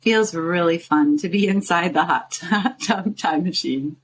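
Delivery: real laugh slipping into the meditation; amused giggle. Real, not acted. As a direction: stumble over the words with a small laugh. Giggles mid-meditation at own phrase.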